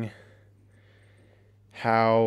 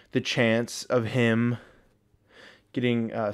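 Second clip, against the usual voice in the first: breathless from the stairs; panting a little between words; out of breath; slower than usual. Real, not acted. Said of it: "I'm out of breath from going up the stairs".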